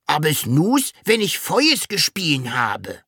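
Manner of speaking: high dragon voice, "nus" with s for r; unable to say R. A narrator's reading. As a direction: say "nus" and "Feuers" with s replacing R. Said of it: "Du kannst kein R sprechen".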